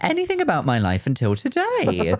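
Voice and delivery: high, far-off flustered candidate; flustered interviewee. Retold or imitated. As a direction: stammer it like a panicked candidate. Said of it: "You're like".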